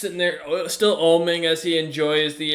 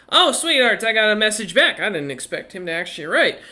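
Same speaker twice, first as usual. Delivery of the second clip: put-on high, bright-ish old granny reading a letter; granny voice, pitched up and fond; 5 semitones higher than usual. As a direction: play the doting old grandmother, pitched up.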